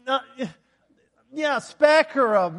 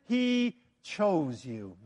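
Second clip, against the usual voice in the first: soft drop; 5 semitones lower, 5 dB quieter, much slower than usual. Real, not acted. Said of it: "drops after climax".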